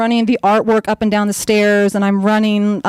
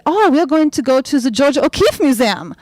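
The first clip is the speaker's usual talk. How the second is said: put-on Norwegian accent; 2 semitones higher than usual. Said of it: "this Norwegian couple".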